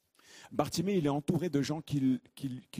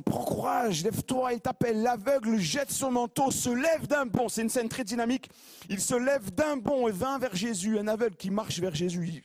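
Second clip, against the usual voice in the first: higher, louder fired-up preaching; rousing preaching; 10 semitones higher, 3 dB louder than usual. Acted. Preacher urging the congregation, high and fired up. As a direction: lift the church with the story.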